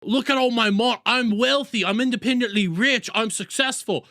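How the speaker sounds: mock rich braggart. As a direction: show off like a smug rich guy, half-joking. Mocking a boastful rich streamer.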